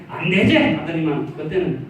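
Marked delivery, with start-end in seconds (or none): 0.1-0.6 emphatic no. Retold or imitated. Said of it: "선악과 때는".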